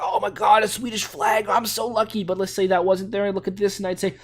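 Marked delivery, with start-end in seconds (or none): 0.0-2.2 mock excitement. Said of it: "I'd be like".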